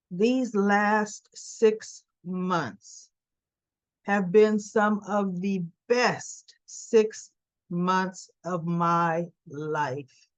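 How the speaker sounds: slow, earnest father's confession; drawing each word out slowly, heartfelt; sincere father. Retold or imitated.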